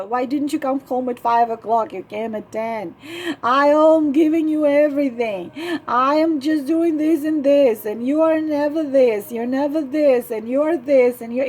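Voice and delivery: a lighter tearful whine of complaint, rising into the list; whining. Retold or imitated. Wife listing her husband's failings, half-tearful whining complaint. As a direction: keep nagging him with wounded self-pity. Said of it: "is it inspiring? Whining".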